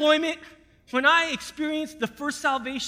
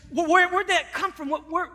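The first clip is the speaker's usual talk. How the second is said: high, stammering confusion; mock startled soldier asking where it came from; higher, flustered disbelief; startled questions; 4 semitones higher than usual. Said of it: "He goes, he goes".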